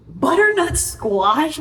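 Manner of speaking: a puzzled "wait, what?" repeat; surprised self-correction. Real, not acted. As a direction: catch your own mistake mid-sentence. Catches her own wrong ingredient.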